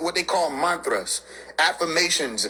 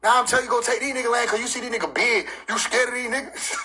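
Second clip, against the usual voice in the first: mock angry God; 5 semitones higher than usual. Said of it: "God used to get mad".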